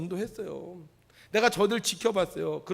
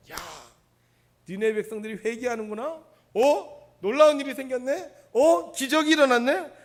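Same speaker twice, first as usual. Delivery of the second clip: rising higher and louder with each amazed exclamation; surprised delight; 6 semitones higher, 7 dB louder than usual. Retold or imitated. Preacher voicing Jonah amazed at Nineveh repenting. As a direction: play Jonah's growing wonder at the miracle. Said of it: "아마 이렇게 생각했을지도 몰라요".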